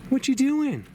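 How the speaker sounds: very high, loud sing-out; playful animal calling. Pretend. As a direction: holler high at the animals, drawing out the words.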